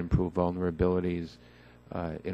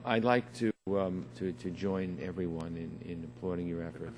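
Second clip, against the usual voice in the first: hard to hear; 8 dB quieter than usual. Real, not acted. Congressman thanking the secretary at a hearing, hard to hear. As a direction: speak too softly to carry across the room. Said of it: "I have a hard time hearing you".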